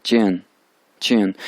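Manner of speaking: चियन with a sharp, jerky fall; jerked falling tone. Shown as a demonstration. Teacher showing the jerky fourth tone, sharp fall. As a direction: snap चियन down quickly. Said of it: "झटके से दे रहा हूँ".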